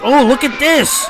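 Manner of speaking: loud excited outburst; excited shout. Real, not acted. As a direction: shout it out in surprise. Exciting moment in wrestling match.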